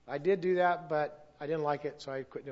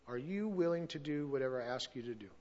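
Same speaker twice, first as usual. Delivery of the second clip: voice of God; 3 semitones lower, 6 dB quieter than usual. Retold or imitated. Voicing God's question.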